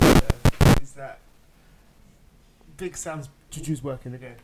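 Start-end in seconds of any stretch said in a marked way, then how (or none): 2.8-4.3 laughing. Real, not acted. Laughs while saying it.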